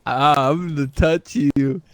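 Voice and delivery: unhinged villain. Pretend. Creepy villain taunt in game.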